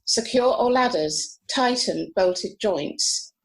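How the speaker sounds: calm, measured recital; poem reading. Acted. Reading a Heaney poem to friends, calm recital. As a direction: read it steadily, letting lines settle.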